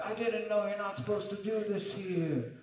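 high, loud desperate pleading; high panicked protest. Retold or imitated. Wild Man protesting as staff drag him out, high and panicked.

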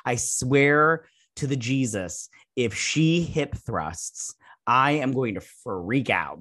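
slow, drawn-out mock threat; exasperated vow. Reviewer dreading a cringe hip thrust, in a slow, exasperated vow. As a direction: stretch each word like a dramatic oath.

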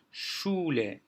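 Schule with SCH said as "sh"; German pronunciation demo. Shown as a demonstration. Teacher reading a German example word, careful pronunciation demo. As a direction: say "Schule" clearly, SCH as a Turkish ş. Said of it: "diye okumamız gerekir".

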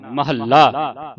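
ਮਹੱਲਾ very slow, held double l; correct pronunciation. Shown as a demonstration. Teacher spelling the word out, very slow and syllabic. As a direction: stretch ma-hal-la in ਮਹੱਲਾ. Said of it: "ਇਸ ਨੂੰ ਮਹੱਲਾ ਬੋਲਣਾ ਹੈ".

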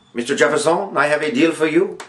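lightly put-on vague foreign accent as Napoleon; a hint of a hammed-up foreign emperor's accent; teacher playing Napoleon in a mock, unplaceable foreign accent; Napoleon's unplaced accent. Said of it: "I don't know what accent this is".

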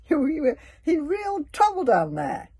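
high, loud, stammering excuse; small dragon pleading his case; guilty little dragon. A narrator's reading. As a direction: blurt it out guiltily. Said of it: "Toothless started guiltily".

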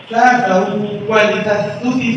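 ساسه ولتسسس drawn out very slowly, each s sound held; slow correct demo. Shown as a demonstration. Teacher correcting students with a slow, drawn-out model. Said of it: "এরকম হচ্ছে না".

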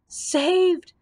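high, loud cry of relief; joyful scream. A narrator's reading. Happy Toko hails the victory, screaming. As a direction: scream it out in triumph. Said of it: "screamed the Happy Toko".

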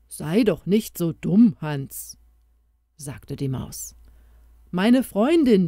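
lightly voiced mouse bringing good news; a hint of an eager small creature; little mouse voice. Mouse voice held.

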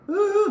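high, tight falsetto whine; loud, strained falsetto "euu"; squeezed falsetto. Shown as a demonstration. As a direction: mimic a throat pinched into falsetto. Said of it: "갑자기 얇게 내면은 목이 좁혀져가지고 가성이".

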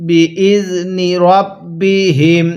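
বি ইজ নি রব বি হিম chanted; tajweed chant; slow recitation. Shown as a demonstration. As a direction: recite syllable by syllable. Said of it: "আরেকবার বলুন".

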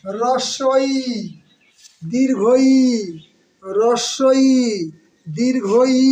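হ্রস্বই and দীর্ঘই with the same held final "i"; vowel sound demonstration. Shown as a demonstration. Teacher showing students both letters share one sound, drawn-out demonstration of হ্রস্বই, দীর্ঘই. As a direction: draw out the closing ee of হ্রস্বই and দীর্ঘই alike. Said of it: "সাউন্ডটা কি".

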